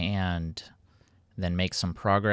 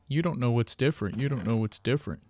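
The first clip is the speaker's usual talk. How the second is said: mildly higher, sing-song taunt; annoying teasing; 4 semitones higher than usual. Retold or imitated. Friend Dolan teasing me, mock annoying taunt. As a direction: taunt him in a needling voice. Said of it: "as annoying as possible".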